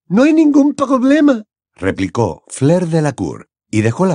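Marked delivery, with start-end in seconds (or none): 0.1-1.4 put-on a delighted French girl; French accent.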